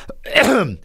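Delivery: quick throat clear. Real, not acted. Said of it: "clears throat".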